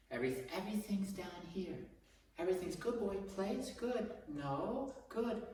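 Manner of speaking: everything in one high excited pitch, commands lost in it; confusing high praise. Shown as a demonstration. Trainer demos the wrong way, all praise and commands high-pitched. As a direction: keep it all up high so nothing stands out. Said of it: "this is the mistake that you don't wanna make".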